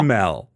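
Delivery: "Caramel" drawn into syllables, low, ending on a clear "mel"; repeated on request. Shown as a demonstration. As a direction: say "Caramel" spread out as CAR-uh-mel. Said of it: "Say that one more time".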